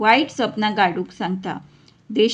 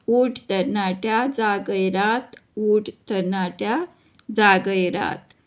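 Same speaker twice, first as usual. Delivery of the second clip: measured, rhythmic verse reading, line by line; poem recitation; 3 dB louder, slower than usual. Acted. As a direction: recite it like a rousing school poem, each line set apart.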